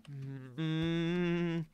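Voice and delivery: long, high frustrated hum. Real, not acted. Frustrated after repeated failures.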